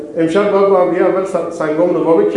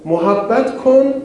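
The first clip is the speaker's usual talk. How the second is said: drawn out, raised, very slow; slow stressed command; 6 semitones higher, much slower than usual. Real, not acted. Preacher to congregation, slowly stressing the command. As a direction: lean on each word as a teaching.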